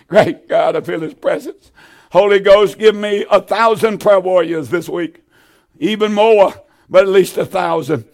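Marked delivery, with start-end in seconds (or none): 2.1-5.2 fervent call. Real, not acted. Preacher calls out in fervor.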